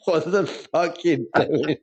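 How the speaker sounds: slow, drawn-out disbelief; baffled lorry driver. Retold or imitated. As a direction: imitate a stunned onlooker. Driver's baffled reaction acted.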